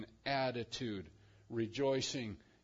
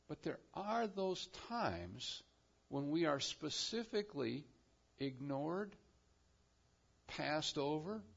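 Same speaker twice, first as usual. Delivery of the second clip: hushed sermon; 6 dB quieter than usual. Acted. Sermon drops to hushed point.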